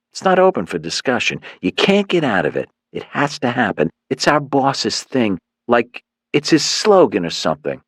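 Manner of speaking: swaggering gang leader laying out the deal; cocky thug. Acted.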